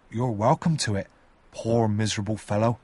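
gentle and kind; kindly. Acted. Joe forgives the hungry convict, kindly. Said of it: "Joe said kindly".

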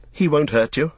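reassurance with a touch of amusement; suppressed amusement. A narrator's reading. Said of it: "hardly able to keep from laughing".

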